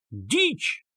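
high, sharp outburst of rage; furious yell. A narrator's reading. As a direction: spit it out in fury. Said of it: "завопил взбешённый до ярости Лужин".

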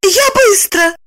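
high lively reply; perked up. A narrator's reading. Lipochka eagerly promising to be quick. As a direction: brighten up eagerly. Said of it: "оживилась она".

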